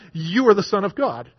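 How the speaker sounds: understated quoted outcry; retold outcry. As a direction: call it out lightly, as in a retelling. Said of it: "fell down before him and cried out".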